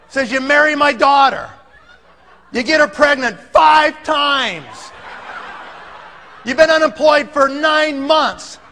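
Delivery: retold indignant tirade, lightly acted; steamed up. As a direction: scold as a fed-up father-in-law. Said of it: "he is all steamed up".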